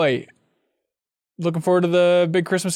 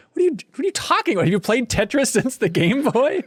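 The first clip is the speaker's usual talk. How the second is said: higher, rushed incredulous outburst; retold disbelief, quick and pitched up; 5 semitones higher than usual. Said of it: "And I was like".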